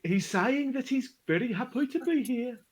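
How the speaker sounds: high, carnival barker calling out to the crowd; hype man announcer. Acted. Hype man calls the crowd to the shin-kicking, barker voice. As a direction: gather them round like a fairground crier.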